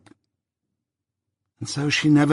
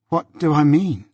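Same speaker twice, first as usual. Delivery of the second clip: mildly timid question, raised in pitch; 5 semitones higher than usual. A narrator's reading. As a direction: ask back with a touch of timidity. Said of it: "asked Biddy timidly".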